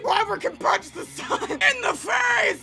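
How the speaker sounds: brash shout. Acted. Voicing a brash character.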